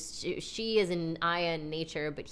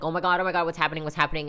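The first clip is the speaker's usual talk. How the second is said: mock panic; 6 dB louder, much faster than usual. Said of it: "the ego is, like, freaking out".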